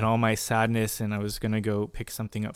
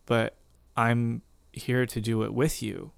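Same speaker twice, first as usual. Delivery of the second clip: gentle voice of God. Retold or imitated. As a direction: hush it down, tender and unhurried. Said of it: "his voice just so gently".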